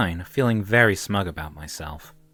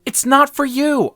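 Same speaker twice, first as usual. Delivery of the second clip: high, loud, slow protest; all but yell it; exasperated, drawn-out objection; near yell; 8 dB louder, slower than usual. A narrator's reading. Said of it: "I all but yelled".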